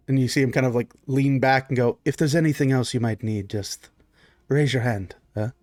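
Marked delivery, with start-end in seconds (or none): 2.0-5.5 lightly voiced discreet butler; a touch of deferential waiter; attentive servant. Servant leans back to guest.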